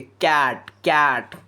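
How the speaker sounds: କ୍ୟାଟ୍ with its "a" vowel leaned on; stress on the vowel. Shown as a demonstration. Teacher showing where stress falls in cat, vowel stressed. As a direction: lean into the middle vowel of each କ୍ୟାଟ୍. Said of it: "ତ ଆମେ କୋଉଠି stress ଦଉଛେ".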